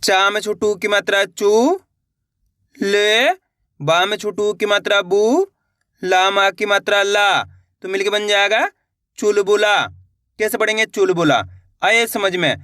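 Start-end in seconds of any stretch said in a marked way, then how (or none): 0.0-9.8 slower demo. Shown as a demonstration. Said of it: "चलिए एक बार फिर से देखिए".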